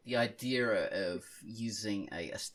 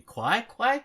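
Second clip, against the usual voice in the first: mock surprise; 14 semitones higher, 11 dB louder than usual. Mock confusion over wrong name.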